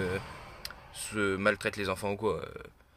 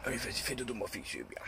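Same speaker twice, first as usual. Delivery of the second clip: whispering over a crib; 9 dB quieter than usual. Real, not acted. Settling the dog to sleep.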